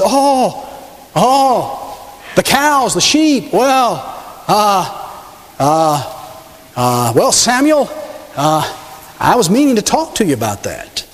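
hemming and hawing, caught out; a king caught lying, stammering excuses; flustered stammering king. Acted. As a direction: stall for time with every uh. Saul caught, backtracking.

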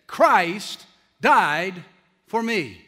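slow and loud, each phrase set apart by pauses; solemn last words. Retold or imitated. Preacher quoting Spurgeon's dying words to the congregation, solemn and deliberate. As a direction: let each word land with weight. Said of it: "gave these last four words. He simply said".

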